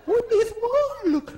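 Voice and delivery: lightly hammed screen diva; mock faded Hollywood star; Joan Crawford. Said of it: "this is Joan Crawford".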